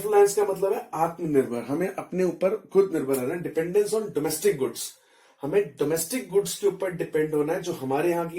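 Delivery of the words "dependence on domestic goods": slow, even dictation pace; dictating notes. Shown as a demonstration. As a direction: read it out slowly so students can write. Teacher dictates notes in English. (धीमी गति से notes लिखवाना)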